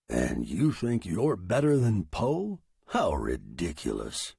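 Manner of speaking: cool, unruffled scorn; scornful machine. Acted. Typewriter belittling the writer over Poe, cool scorn. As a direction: scoff without raising your pitch.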